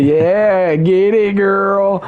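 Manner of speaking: high, hyped-up cheer; retold cheering. Cousin cheering on the drinker, retold high-pitched hype. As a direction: egg her on like a party cousin.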